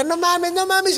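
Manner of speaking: high, dismayed no mames; a lightly voiced horrified girl. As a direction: squeal it in disbelief. Girl dismayed by fish heads.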